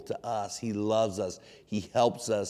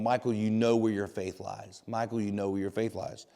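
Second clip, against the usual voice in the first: retold softly and lower, like a wife reassuring; wife's quiet reassurance; 3 semitones lower, 6 dB quieter than usual. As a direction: say it gently, letting the repeat drop softer. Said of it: "she said a couple words to me".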